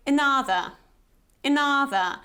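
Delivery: "another" with a barely audible first vowel; near-silent schwa. Shown as a demonstration. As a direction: swallow the start of "another": "'NUH-thuh". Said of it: "it's this kind of silent sound".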